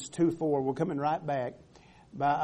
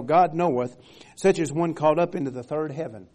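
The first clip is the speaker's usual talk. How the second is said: louder, declamatory Bible reading; scripture reading; 5 dB louder than usual. Acted. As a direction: read the verse out firmly to the congregation. Reads scripture aloud to congregation.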